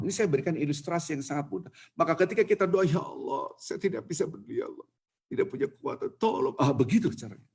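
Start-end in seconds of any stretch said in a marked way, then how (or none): 2.8-6.6 a touch of humble begging; mild pleading prayer. Pretend. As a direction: softly ask for help, understated. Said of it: "Doa itu harus melas".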